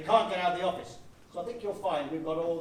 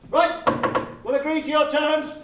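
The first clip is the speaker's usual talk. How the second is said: louder and higher, decisive; loud declaration; 8 semitones higher, 8 dB louder, slower than usual. Acted. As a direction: announce it firmly to the enemy. Captain announces decision loudly.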